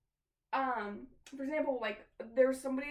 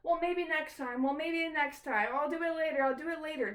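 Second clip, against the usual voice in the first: mock procrastinator; 2 semitones higher, 4 dB louder than usual. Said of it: "put things off and go".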